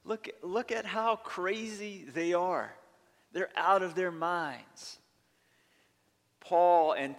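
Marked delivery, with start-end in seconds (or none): 0.0-5.0 mocking critics. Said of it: "they've said".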